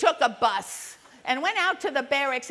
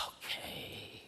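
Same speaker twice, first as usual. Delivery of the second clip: tiny, drawn-out whispered reply; grudging surrender; 16 dB quieter than usual. Retold or imitated. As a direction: give in under your breath. Child giving in after order.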